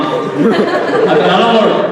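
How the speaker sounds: slow, hammed-up whine of protest; mock desperate pleading. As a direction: stretch it out, begging Mom theatrically. Schoolboy pleads with his mom.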